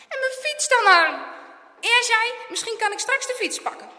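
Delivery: high, loud worried exchange; pressing, worried voices; anxious urgency. A narrator's reading. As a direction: call out in alarm. Anxious exchange during rescue.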